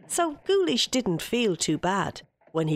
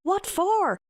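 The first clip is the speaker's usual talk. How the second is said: puzzled Guleesh; 12 semitones higher than usual. Acted. Guleesh asks again.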